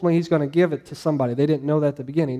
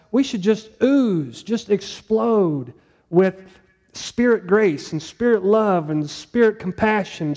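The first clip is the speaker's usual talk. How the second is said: fervent preaching; 4 semitones higher than usual. Real, not acted. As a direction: let it swell as you picture it overflowing. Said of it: "preacher's fervent image".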